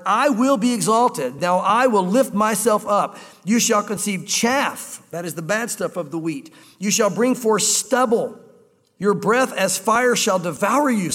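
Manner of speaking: slow, solemn reading of the verse; scripture reading. Acted. Preacher reading Isaiah to the congregation, slow and solemn. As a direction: read it slowly like sacred text.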